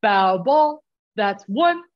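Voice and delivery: lightly voiced coxswain calling out; coxswain's call. Retelling a call made while cutting between boats, coxswain call. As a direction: call it out crisply, like a race command. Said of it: "the call that I got to make".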